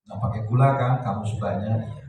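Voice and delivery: low-key caring fussing; gentle, attentive. Acted. Newlywed wife packing husband's coffee and snack, gently. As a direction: look after him tenderly, unhurried. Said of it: "lembut, perhatian".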